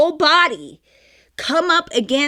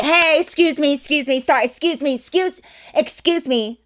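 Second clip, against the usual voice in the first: mock pushy string of interruptions, pitched up; loud, rude imitation; 3 semitones higher than usual. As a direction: imitate rude girls barging through a crowd. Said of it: "really loud, and they're kinda rude".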